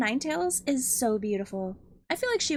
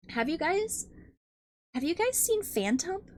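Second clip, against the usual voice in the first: excited; 4 semitones higher than usual. Real, not acted. Excited asking chat.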